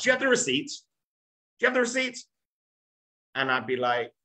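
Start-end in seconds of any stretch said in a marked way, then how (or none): 0.0-0.7 high wife voice. Retold or imitated. Wife asking for receipt. 1.6-2.2 high wife voice. Retold or imitated. Wife repeats receipt question.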